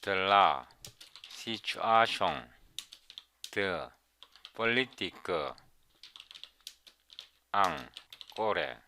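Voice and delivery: slow, halting schoolboy French; bogus French. Shown as a demonstration. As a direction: read broken French word by word. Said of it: "이거 엉터리 불어인데요".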